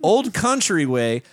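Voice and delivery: a hint of the Sheik's broken English; Iron Sheik impression. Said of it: "respect the Fisher; the Iron Sheik".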